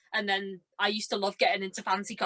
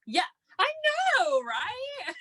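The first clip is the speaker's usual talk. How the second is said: tearful; slower than usual. Real, not acted. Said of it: "you crying?".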